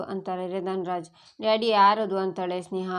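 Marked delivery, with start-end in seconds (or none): 1.4-2.2 startled question. A narrator's reading. Daughter startled by phone call.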